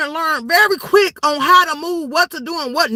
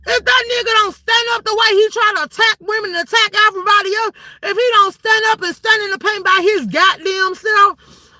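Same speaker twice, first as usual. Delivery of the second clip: heated rant; 6 semitones higher than usual. Real, not acted. Angry rant about fight.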